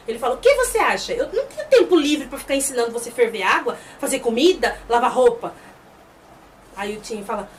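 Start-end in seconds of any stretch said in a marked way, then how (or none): 0.3-5.5 prideful retort. Retold or imitated. The chief denying he cared for Tien, wounded pride. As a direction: fire it back, punching the list. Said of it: "O orgulho fala mais alto".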